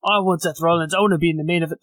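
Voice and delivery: self-admitted horrible Scottish accent impression; bad Drew McIntyre accent. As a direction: fumble through a Scottish accent on purpose. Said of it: "That was a horrible accent".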